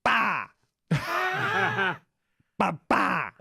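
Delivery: imitating baby "bah" cries; mock baby shouting bah; baby babbling. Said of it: "'cause you would hear".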